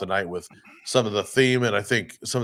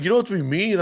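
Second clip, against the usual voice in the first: whiny patron imitation; 9 semitones higher, faster than usual. Retold patron's complaint.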